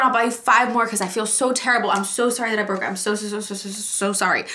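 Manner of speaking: hammed-up sorry friend; imitating a guilty friend. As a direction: play the friend who feels awful. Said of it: "Just be like".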